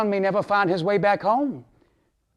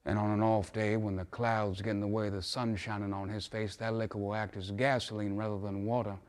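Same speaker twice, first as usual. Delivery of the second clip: low and soft, sinking lower; subdued admission; 4 semitones lower, 8 dB quieter than usual. Acted. Father admitting his son's drinking to Mister Clark, subdued. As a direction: confide it quietly, dropping away at the ends.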